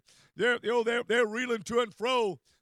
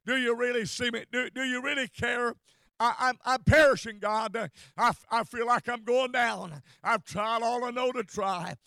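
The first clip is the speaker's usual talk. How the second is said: anguished prayer. Retold or imitated. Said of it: "cried within your soul and said".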